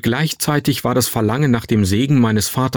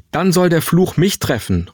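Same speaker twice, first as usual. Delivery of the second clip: higher, forceful mother's cry; energischer Ausruf; 7 semitones higher than usual. A narrator's reading. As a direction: call it out with resolute energy. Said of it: "rief Mutter energisch". (energisch ausgerufen)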